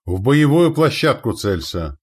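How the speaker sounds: slow, loud, high order; forceful battle command; commanding shout. A narrator's reading. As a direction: direct the gunners' aim from afar. Commander gives aiming order.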